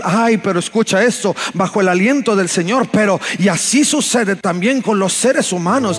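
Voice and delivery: fervent scripture proclamation; impassioned preaching. Acted. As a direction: declaim scripture with steady fervour.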